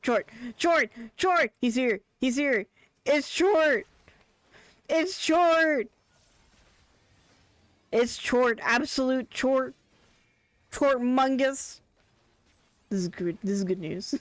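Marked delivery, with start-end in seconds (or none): 0.0-11.8 building to a high, loud thrilled shout; excited shouting. Real, not acted. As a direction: cheer his name like a fan spotting a star. Excitedly spotting beloved character Chort.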